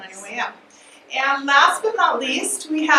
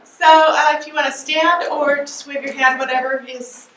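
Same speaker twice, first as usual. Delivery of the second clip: loud, firm classroom voice; teacher voice; 4 dB louder than usual. Real, not acted. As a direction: project like a teacher to the room. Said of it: "I'll use my teacher voice".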